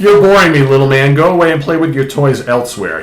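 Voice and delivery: loud, high opening, then easing off; dismissive brush-off. Retold or imitated. Werewolf shooing away the English hunter, dismissive. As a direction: brush off a pest, acted.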